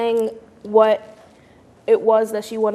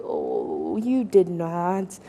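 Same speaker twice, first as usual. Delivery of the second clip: sassy disbelief; 3 semitones lower, much slower than usual. Retold or imitated. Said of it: "And I was like".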